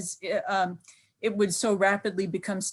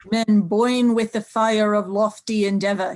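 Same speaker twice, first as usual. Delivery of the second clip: Teddy Roosevelt quote; 6 dB louder than usual. Retold or imitated. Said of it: "And he says".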